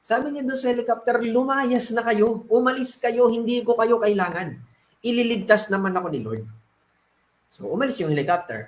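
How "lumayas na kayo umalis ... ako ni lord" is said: irked dismissal. Acted. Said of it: "napikon na siya".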